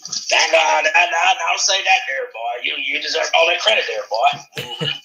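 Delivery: low, lazy country drawl, lightly done; lightly voiced redneck. Praising the co-host's channel, lightly drawled redneck. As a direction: drawl it like an old boy on a porch.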